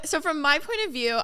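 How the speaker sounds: usual speaking voice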